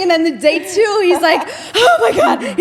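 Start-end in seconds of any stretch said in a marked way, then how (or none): 1.8-2.6 high, loud hammed-up groan of pain; imitated scream of pain; mock wail. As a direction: cry out like you're rolling around in agony. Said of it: "He's, like, rolling around on his bed".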